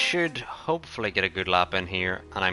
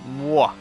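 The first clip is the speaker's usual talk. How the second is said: dastardly laugh; 4 semitones higher, 4 dB louder than usual. Acted. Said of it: "We've got our dastardly laugh".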